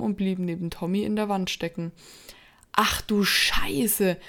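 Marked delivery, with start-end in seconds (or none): 2.7-4.2 stunned slow whisper. Acted. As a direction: breathe it out in shock. Figure just missed him.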